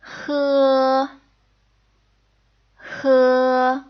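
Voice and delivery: H with the back of the throat narrowed, air rasping over the tongue; H as a rough, throaty breath; throaty Mandarin h. Shown as a demonstration. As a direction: say H close to the ch of loch. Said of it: "Let's try one more time".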